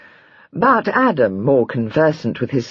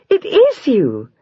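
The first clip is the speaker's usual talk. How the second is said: higher, louder and slow with delight; joyful exclamation; 10 semitones higher, 4 dB louder, slower than usual. A narrator's reading. Wife exclaims down the stairs at her husband, delighted. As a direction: cry out in glad relief. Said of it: "She saw him and exclaimed".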